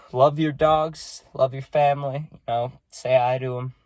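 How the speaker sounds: sighing, heartfelt goodbye; tender plea. Real, not acted. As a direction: gently urge them to love their own. Heartfelt sign-off after dog's death.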